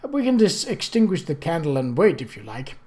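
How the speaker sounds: sly, teasing offer; a hint of mischief in the voice; mischievous. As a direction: tempt them with the dark, playfully. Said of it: "In a mischievous voice he added".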